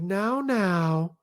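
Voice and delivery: mildly timid imitation of a mother; gently mock an overcautious parent; timid mom. Mom weakly chiding little boys throwing rocks, timid. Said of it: "this incredibly timid voice".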